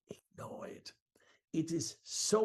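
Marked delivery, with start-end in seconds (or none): 0.1-0.9 whisper. Shown as a demonstration. Coach stage-whispers sales advice.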